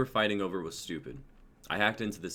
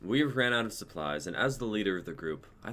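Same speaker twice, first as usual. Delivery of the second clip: recorder log; 3 semitones higher, 4 dB louder than usual. Acted. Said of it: "heard speaking to a recorder".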